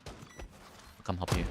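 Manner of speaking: slow soft whisper. Real, not acted. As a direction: breathe it out slowly. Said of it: "repeats the line differently".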